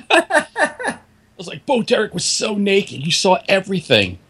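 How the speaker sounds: high, slow, laughing disbelief. Retold or imitated. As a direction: laugh through the words. Retelling own stunned reaction.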